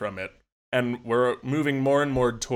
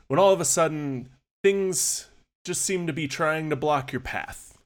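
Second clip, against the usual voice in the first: spooky storytelling. Acted. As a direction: draw the listeners into a creepy alley tale. Sets a spooky scene.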